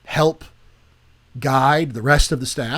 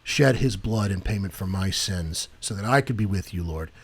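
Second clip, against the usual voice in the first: spoken prayer; 4 semitones lower than usual. Shown as a demonstration. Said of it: "Say it out loud".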